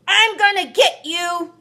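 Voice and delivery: loud, high furious threat; mean every word, chasing him; angry threat. A narrator's reading. May threatening her brother, loud and furious.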